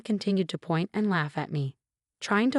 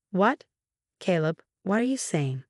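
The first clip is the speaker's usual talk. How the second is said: surprised. Acted.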